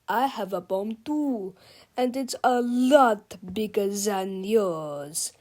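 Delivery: slow, booming giant menace; giant robot villain. Acted. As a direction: speak like a huge menacing machine. Giant Super Mega Tippy voice.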